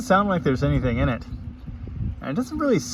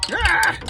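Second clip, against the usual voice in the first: startled yelp; 4 dB louder than usual. Real, not acted. Startled by something.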